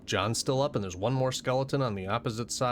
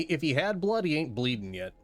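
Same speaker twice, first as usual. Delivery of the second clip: ordinary talk, nothing marked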